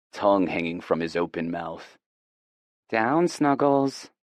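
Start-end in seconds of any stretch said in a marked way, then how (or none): 2.9-4.1 high, slow drawn-out command; firm dog command. Acted. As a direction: stretch out the down to the dog.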